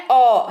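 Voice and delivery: अ sounded as "aw"; pronunciation demo. Shown as a demonstration. Teacher isolating the vowel for learners, pronunciation demo of अ. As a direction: give अ as a lone "aw" vowel. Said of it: "कैसे उच्चारण हो रहा है?".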